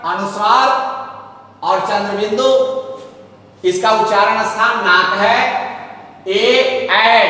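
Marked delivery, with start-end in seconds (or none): 6.3-7.2 ए then ऐ held open from the throat; vowel demo. Shown as a demonstration. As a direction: sound out ए and ऐ for students. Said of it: "ए कंठ से निकलती है".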